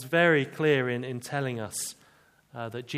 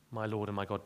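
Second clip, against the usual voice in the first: low, soft, reverent "My Lord and my God."; addressing Jesus; 5 semitones lower, 7 dB quieter, faster than usual. Shown as a demonstration. Thomas speaking to Jesus, soft and low. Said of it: "he was speaking to Jesus".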